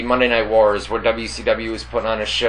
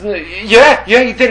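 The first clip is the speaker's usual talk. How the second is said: mild whiny neighbor; 7 semitones higher, 4 dB louder than usual. Retold or imitated. Russian neighbor answering.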